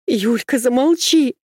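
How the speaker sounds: a frantic high cry; desperate scream. Acted. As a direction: scream her to stop. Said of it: "закричала Машка так отчаянно".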